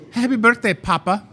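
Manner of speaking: lightly sung-out birthday greeting; a light, high birthday call; cake greeting. Retold or imitated. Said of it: "And they would".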